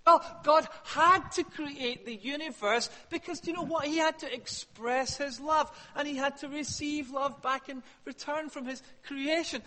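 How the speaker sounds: imitating a glib believer; lightly voiced know-it-all explanation; mock Christian answer. Preacher mimics Christians he cringes at, mock know-it-all tone. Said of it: "But I cringe ... when I hear Christians answer".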